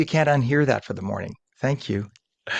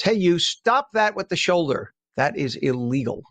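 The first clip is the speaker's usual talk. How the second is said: higher, teasing call-out at a driver; mock scolding; 6 semitones higher than usual. Traffic reporter scolding a shoulder driver, mock stern. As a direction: wag a finger at the shoulder driver.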